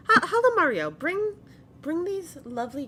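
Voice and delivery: put-on high, loud call to a child. Grandmother calls the child to escort guests, calling out.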